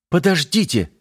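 high urgent call to stop them. Acted. Юля окликает отъезжающих мужчин, громко. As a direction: shout after them before they leave. Yulia calls out to departing men.

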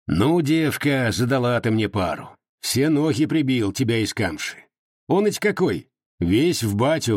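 a hint of a grumbling old soldier; mild complaining Cossack; lightly voiced Cossack Prokhor. Prokhor speaks.

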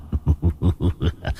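low, soft sinister chuckle; evil cackle. A narrator's reading. Demon guard gloating, evil cackle.

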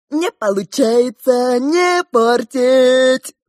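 slow, loud clowning retort; mock him like a jester. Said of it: "поясничал клоун-паяц". (медленно, громко, паясничая)

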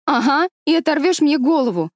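высокий, громкий злой окрик; огрызнуться на подругу; рявкнула. A narrator's reading. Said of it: "рявкнула Гвендолин". (злобно рявкнуть, голосом девочки)

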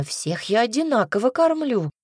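mildly indignant self-defence; firm, affronted justification. Acted. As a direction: push back against the accusation. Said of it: "возмутилась женщина".

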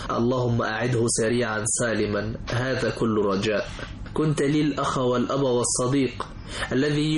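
slow measured poetic recital; poem recitation. Acted. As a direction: recite each line with pauses.

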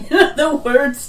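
laughing. Real, not acted. Laughing while joking.

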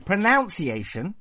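pronunciation said "pro-NOUNCE-iation", slowly; deliberate mispronunciation. Pretend. Teasing host about the topic, pronunciation mispronounced with "nounce". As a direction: put "noun" into pronunciation, as a question. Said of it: "about pronunciation".

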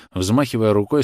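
ordinary delivery

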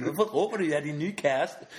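hammed-up innocent outrage; high, loud, playful retort; mock indignant. Friend's retort to screaming girl.

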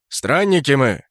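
a loud, gruff bark; barked reply. Acted. Kraken barking at the elf guard, loud. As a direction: snap it back at the gate. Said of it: "гаркнул Кракен".

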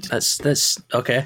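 recovering from choking, breathy; catching breath after coughing; swallowed wrong way. Real, not acted. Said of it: "just choking on water there".

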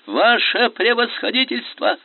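high, loud desperate plea; a frightened lieutenant begging the general; desperate cry. A narrator's reading. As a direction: cry out in despair. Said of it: "отчаянно закричал поручик".

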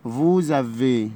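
vous avez with a z sound before avez, very slow; slow French liaison vous-z-avez. Shown as a demonstration. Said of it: "هننطقها زد".

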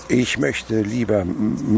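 slow, halting stammer on the m; stuttering. Acted. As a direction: trip over the word on purpose. Miser stalls with a stutter.

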